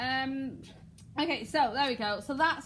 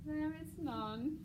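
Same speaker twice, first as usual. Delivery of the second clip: evil; 4 semitones higher, 7 dB quieter, slower than usual. Shown as a demonstration. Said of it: "a bit like evil".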